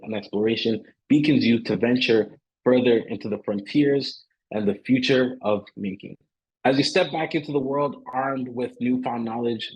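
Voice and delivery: formal, measured read-aloud send-off; scripted closing address. Real, not acted. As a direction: deliver a polished event sign-off.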